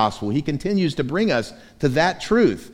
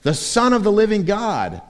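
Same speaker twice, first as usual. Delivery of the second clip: Peter's proclamation; 9 semitones higher, 5 dB louder than usual. Acted. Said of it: "made the pronouncement".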